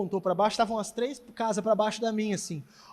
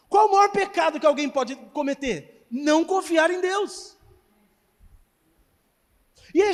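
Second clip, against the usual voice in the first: louder, rising pulpit exhortation; fiery preaching; 5 semitones higher, 4 dB louder than usual. Acted. Pastor warning the church against anxiety, fiery preaching. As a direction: hammer it home to the congregation.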